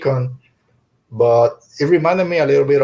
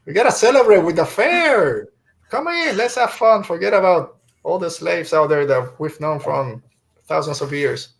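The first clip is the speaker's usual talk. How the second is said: mock cheerful host, pitched way higher; sarcastic mock cheer; 5 semitones higher than usual. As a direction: sell the party with biting sarcasm. Mocking the Republic's fair.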